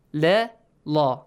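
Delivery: "la, la": first light and thin, then heavy and dark; light, then heavy lam. Shown as a demonstration. Teacher contrasting both sounds for students, light then heavy. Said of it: "What do we mean by pronouncing it lightly?".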